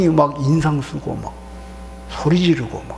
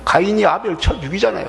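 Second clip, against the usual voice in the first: ordinary talk, nothing marked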